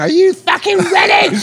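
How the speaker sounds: shrill, very high, loud shout. Retelling how she shouted when she couldn't hear the speaker, retelling a shout. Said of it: "so she's shouting".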